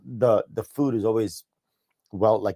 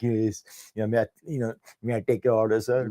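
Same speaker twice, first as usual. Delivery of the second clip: understated snooty politeness; lightly acted haughty waiter; 4 dB quieter than usual. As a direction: take the order with mild disdain. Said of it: "And I'm really snooty".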